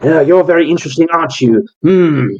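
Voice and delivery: sizing up a Pokemon he covets; eccentric breeder. Acted. GM voicing Callus.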